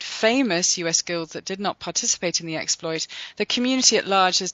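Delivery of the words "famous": sarcastic air quotes. Real, not acted.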